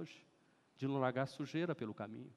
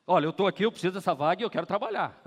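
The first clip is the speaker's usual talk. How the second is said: eager plea; 9 dB louder, faster than usual. Acted. Acting eager job seeker.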